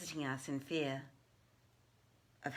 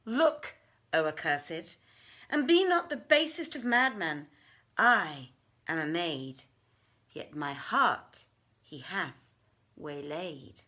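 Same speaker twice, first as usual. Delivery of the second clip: sharp rebuke; 4 dB louder than usual. Acted. Maymunah rounds on Danash, scolding. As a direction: snap at him, then soften.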